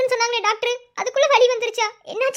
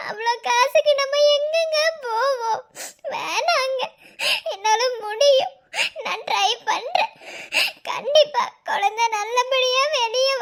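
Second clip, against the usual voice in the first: pleading while half crying; tearful pleading. Acted. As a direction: beg him through tears. Wife pleads through tears. (அழுதுகொண்டே கெஞ்சுதல்)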